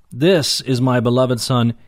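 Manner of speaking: "This" stressed and set apart from the rest; emphatic THIS. Shown as a demonstration. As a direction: lean firmly on the opening "This". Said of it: "It's emphatic".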